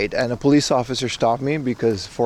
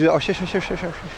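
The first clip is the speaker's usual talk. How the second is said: mock Castilian accent; 5 semitones higher, 3 dB quieter than usual. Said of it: "we're not used to the Spanish accent".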